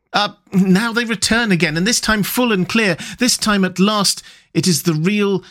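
lightly voiced, awed Rat; hushed wonder at perfection; rapt Rat voice.

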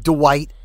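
"Dwight" as duh-WIGHT; "Dwight" with an uh after the D; two-syllable Dwight. Shown as a demonstration. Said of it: "or, like".

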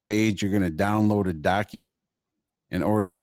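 choppy voice on a bad connection; breaking up over a weak line; call dropping out. Real, not acted. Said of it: "Oh, you're breaking up".

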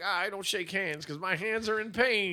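slow, drawn-out creep impression; hammed-up slow creep; mock creepy villain. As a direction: imitate the villain's laboured, slow speech. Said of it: "he was like".

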